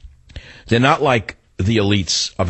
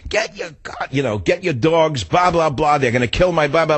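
higher-pitched mock scream, not at full volume; half-hearted retold holler, raised in pitch; 4 semitones higher than usual. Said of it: "I scream".

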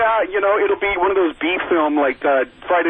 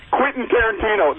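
sarcastic; 7 semitones higher than usual. Real, not acted. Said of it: "that's sarcasm".

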